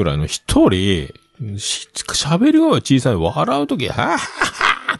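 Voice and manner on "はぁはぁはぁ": imitated loud laugh. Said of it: "めちゃめちゃでかい声で笑う".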